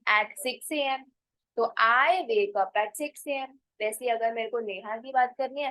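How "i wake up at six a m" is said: very slow, word by word; teacher dictating an example sentence; slow model sentence. Shown as a demonstration. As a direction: spell it out slowly for learners. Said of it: "तो मैं कैसे बोलूंगी?".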